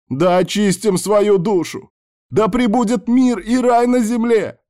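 very high, slow chanting shout; fanatical yell. A narrator's reading. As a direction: cry it out like a zealot, stretching the words. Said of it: "заорал сектант".

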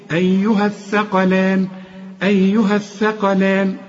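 measured tajweed reading of "أيها الثقلان"; connected recitation. Shown as a demonstration. Teacher showing how to read on without stopping, connected recitation. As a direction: link "أيها" straight into "الثقلان". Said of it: "عند الوصل تقول إيه".

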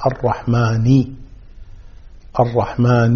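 الرحمن ending in a clear "-ni"; kasra on nun. Shown as a demonstration. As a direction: sound out the final i in الرحمن. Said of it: "بكسر النون". (كسر نون الرحمن)

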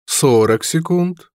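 high, slow taunting count; slow countdown. A narrator's reading. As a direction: drag out the seconds. Villain counts down.

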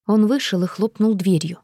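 usual speaking voice

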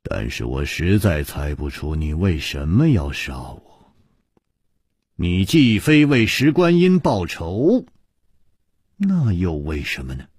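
sigh. Acted. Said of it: "楚留香叹道".

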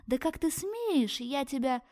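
high, slow, outraged shriek; a she-wolf shrieking in outrage; shrieking fury. Acted. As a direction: scream it at her, stretching each word. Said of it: "визжащую громким голосом".

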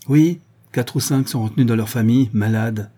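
mildly snappish reply; understated surly headmaster; surly answer. Acted. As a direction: answer grudgingly, a touch of spite. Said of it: "répondit hargneusement Madrier".

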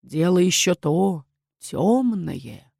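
slow, hollow voice from the grave; sepulchral voice. A narrator's reading. Найли нарочно пугает Лейлу, замогильный голос. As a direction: spook her with a ghostly drone. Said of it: "загробным голосом проговорила".

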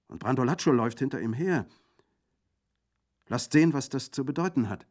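put-on spirited young Corsican woman calling out; lively young woman. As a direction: Colomba teasing, then alarmed and loud. Colomba speaking lively.

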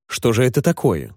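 ordinary delivery

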